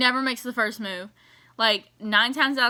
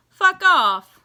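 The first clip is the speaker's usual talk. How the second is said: imitating Cass, higher, louder brush-off; mock rude retort; 7 semitones higher, 8 dB louder than usual. Imitating Cass blowing Sam off, mock louder. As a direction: toss it off like you don't care. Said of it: "he's like".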